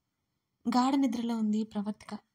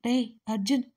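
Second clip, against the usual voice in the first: panicked call; 4 dB louder than usual. Acted. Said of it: "అని కంగారుగా పిలిచాడు ప్రణయ్".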